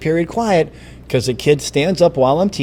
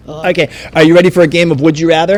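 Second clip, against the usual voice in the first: game host hype; 5 dB louder, faster than usual. Acted. Host launches a quiz game.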